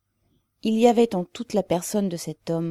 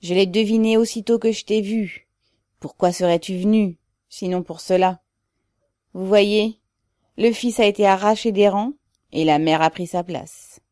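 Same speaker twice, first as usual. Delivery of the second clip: loud, raised declaration; emphatic, table-thumping; 4 semitones higher, 7 dB louder than usual. A narrator's reading. Worker hails the mother to his comrades, loud and emphatic. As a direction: proclaim it forcefully, voice lifted. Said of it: "dit Ribine en frappant la table".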